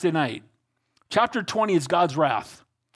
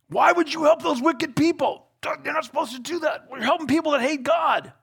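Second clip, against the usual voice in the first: higher, indignant rebuke; rebuking prophet; 9 semitones higher than usual. Acted. Prophet scolding the king for his alliance, higher indignant rebuke. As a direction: scold the king for helping the wicked.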